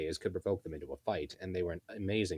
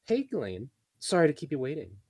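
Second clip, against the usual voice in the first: high, bright sing-song lilt; 8 semitones higher, 5 dB louder than usual. Acted. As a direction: greet her in a sing-song. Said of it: "in a sing-song voice".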